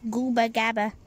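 low grunting creature babble; changed monster voice. Acted. Villain showing off his creature's new voice. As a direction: growl the nonsense like a mutated beast. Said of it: "I changed his voice".

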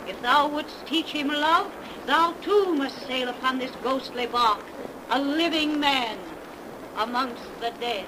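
a loud, solemn proclamation; solemn pronouncement. Acted. Messenger warning the priest of the ghostly voyage, loud and solemn. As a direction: pronounce the sentence with full weight.

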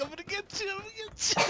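mock menace. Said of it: "I was like".

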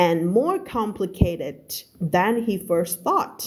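slow, measured English reading; story read-aloud. Shown as a demonstration. Teacher reading a novel to learners, slow narration. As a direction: read it slowly, word by word, for learners.

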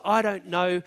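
a scornful, dismissive "I don't know"; a mildly contemptuous shrug of a line; with contempt. Acted. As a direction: brush it off like it's beneath you. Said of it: "with contempt".

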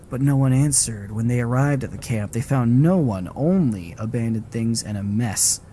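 a lightly read story narration; lore reading. Acted. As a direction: read the camp's history like a tale. Reads game lore aloud.

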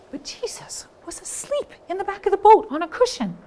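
hushed whisper of Jesus sleeping; secretive whisper. Shown as a demonstration. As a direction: whisper so not to wake him. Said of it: "loud or soft".

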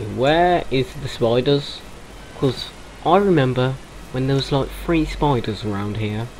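posh voice. Pretend. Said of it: "Why are you talking like a posh twat?".

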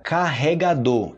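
"Carregador" drawn out as "ka-he-ga-DOH"; careful, slow Brazilian "Carregador"; slow double R. Shown as a demonstration. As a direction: breathe the R in "Carregador", drop the final R. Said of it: "cuidado na pronúncia de carregador".

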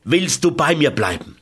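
a final desperate cry, not full force; calling out. Acted. José calls to Carmen one last time, mildly urgent. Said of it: "Zum letzten Male rief ich".

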